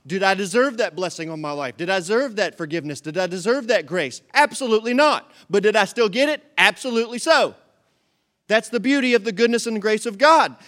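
loud, rising preacher declaration; full-force sermon climax; loud preaching. Acted. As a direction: proclaim it to the back row.

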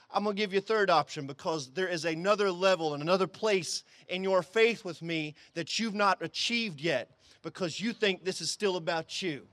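low, softened answer to a prayer; lightly voiced God. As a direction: quietly set the pleader straight.

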